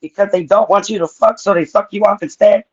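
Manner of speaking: robotic Android voice; flat robot-like questioning. Acted. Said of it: "let me give you my Android voice".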